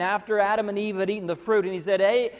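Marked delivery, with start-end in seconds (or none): 2.0-2.3 God calling out. Retold or imitated. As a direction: call out across the garden, searching.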